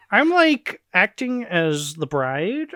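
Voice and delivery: high, drawn-out puppet frog voice; Kermit the Frog voice. Acted. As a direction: play the bride as a cartoon frog. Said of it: "giving her Kermit the Frog voice".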